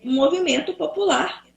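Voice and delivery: glitchy robotic call audio; breaking up like a bad connection. Real, not acted. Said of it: "tá robotizada".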